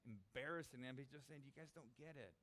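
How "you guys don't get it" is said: soft, understated reproof; mildly stern. Retold or imitated. Jesus to his disciples, quiet and mildly stern. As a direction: say it quietly, not to embarrass them. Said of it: "kind of in a stern tone".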